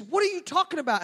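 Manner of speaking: very high mock-mother question; exasperated mom. Mother to insistent son, high-pitched bafflement. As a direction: shoot the pitch up in disbelief.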